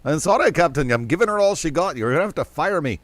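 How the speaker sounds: lightly voiced Scottish engineer; a hint of a Scottish accent, pleading with the captain; understated Scottish brogue; Scotty impression. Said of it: "Jimmy Doohan from Star Trek".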